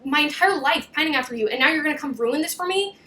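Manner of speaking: indignant imitation; mock anger. Her confronting him after years of pining, mock anger. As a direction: act out wounded outrage, lightly. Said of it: "to feel anger at being like".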